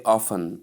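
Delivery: "often" as OFF-un, silent T; T left out. Shown as a demonstration. Teacher contrasts two ways of saying often, silent T. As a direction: go straight from F to N in "often". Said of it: "omitting the T".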